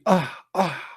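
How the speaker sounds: imitated open-mouthed yawn sound; mock yawn. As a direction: softly fake a yawn, "ah, ah". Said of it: "when yawning".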